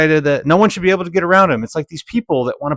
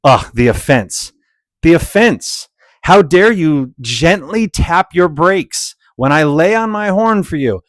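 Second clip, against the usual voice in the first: mock indignation; 2 semitones higher, slower than usual. Mocking the offended driver.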